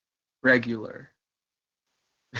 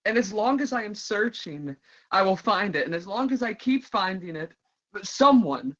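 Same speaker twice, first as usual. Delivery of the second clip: higher, ardent dramatic monologue; impassioned declaration; 4 semitones higher than usual. Acted. Performer declaring they will keep searching, impassioned. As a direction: lift it into a fervent, hopeful vow.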